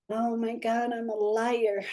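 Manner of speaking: high, hushed dawning shock; a touch of disbelieving shock; stunned realization. Retold or imitated. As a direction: let the truth land on you. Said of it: "And I was like".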